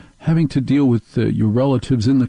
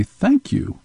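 squeaky high-pitched thank you; high falsetto thanks; high mock thanks; 13 semitones higher than usual. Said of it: "except say".

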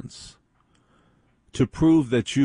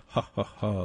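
soft imitation of a polite chuckle; light mock chuckle; 7 dB quieter than usual. Mimicking a serious reporter's light sense of humor, soft fake chuckle. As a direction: chuckle lightly as if mildly amused. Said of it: "light sense of humor".

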